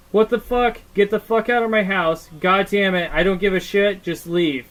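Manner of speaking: ex-wife shouting him out of the house; angry yelling. Retold or imitated. Ex-wife yelling at her husband's friend, furious. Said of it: "and she says".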